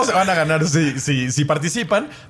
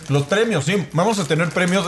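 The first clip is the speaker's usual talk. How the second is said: talking with a mouth full of chips; words muffled by a mouthful; 3 semitones higher than usual. Real, not acted. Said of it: "Es que estoy con la boca llena". (con la boca llena)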